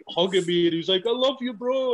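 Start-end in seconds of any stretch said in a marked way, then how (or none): 1.1-1.9 higher, mock drunken affection; lightly voiced drunk buddy gushing; tipsy Johnny. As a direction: play a soppy drunk mate. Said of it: "he'd been drinking".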